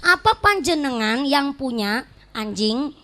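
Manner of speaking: "anjing" split off as if name-calling; wrong intonation. Shown as a demonstration. Preacher replays the offending dog question, with wrong intonation. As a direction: pause before "anjing" and drop it like an insult. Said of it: "Salah intonasi".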